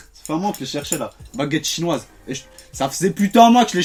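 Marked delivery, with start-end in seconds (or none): none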